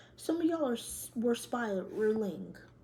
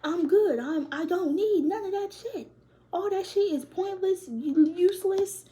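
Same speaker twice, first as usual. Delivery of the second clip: mock defiant self-talk; 5 semitones higher, 3 dB louder than usual. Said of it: "And be like".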